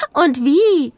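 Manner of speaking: hohe, helle Mädchenstimme, einladend; begrüß die Kleinen wie ein stolzes Schulkind; freundliches Schulmädchen. A narrator's reading. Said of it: "antwortete sie". (Mia begrüßt Nele am Schultor: hoch und freundlich)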